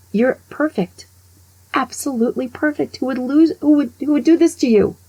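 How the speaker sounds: outraged for her, each line climbing; building indignation. Retold or imitated. Teller comforting the abandoned wife, rising indignation.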